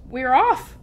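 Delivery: lightly shouted send-off; group shout. A narrator's reading. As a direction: call it out with the crew. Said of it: "we all shouted".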